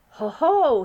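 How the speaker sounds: loud joyful giant shout; triumphant cry. Acted. BFG remembering, triumphant cry. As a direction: exclaim as it comes to you. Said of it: "he cried at last".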